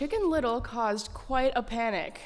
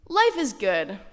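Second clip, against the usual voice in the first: mild mock scream; 5 dB louder than usual. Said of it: "screamed as they ran".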